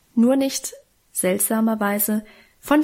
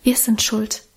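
usual speaking voice

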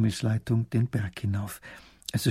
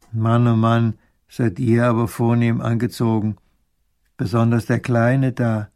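put-on gruff old hermit; 7 dB louder than usual. Bearded old man voiced.

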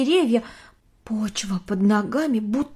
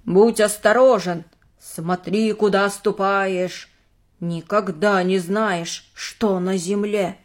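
slow, lowered ominous warning; lightly spooky storyteller voice; creepypasta narrator; slower than usual. Acted. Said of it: "и тоже понизила голос".

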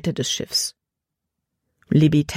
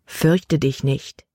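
calm reassurance; 2 semitones lower, much slower than usual. Acted. Erinnerte Bibelworte, ruhig.

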